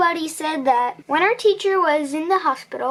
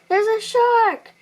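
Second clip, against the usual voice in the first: slow, higher mock warning of a shark; teasing fake alarm; 7 semitones higher, slower than usual. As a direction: pretend alarm to scare a cousin. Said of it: "I teased".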